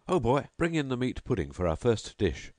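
host calling his servant for the meat pudding. Acted. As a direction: order the pudding across the room. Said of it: "Then he called out".

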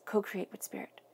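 hushed message from the crow card; soft whisper. Acted. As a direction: breathe it out like a quiet oracle. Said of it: "Here it says".

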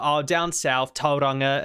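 imitating a southern New Zealand girl's thick Kiwi accent; mock strong Kiwi accent. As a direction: put on a broad Kiwi accent. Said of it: "she has a really strong Kiwi accent".

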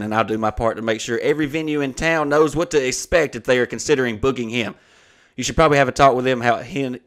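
declaimed formal complaint, even and unbroken; email read-aloud. Acted. Venue complaining to the comedian's agent, formally read aloud. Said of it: "I'm gonna read the email".

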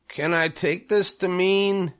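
high, hopeful question; pig's voice pitched well up; Wilbur the pig, hopeful. A narrator's reading. Wilbur asks the new spiders, high and hopeful. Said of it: "asked Wilbur".

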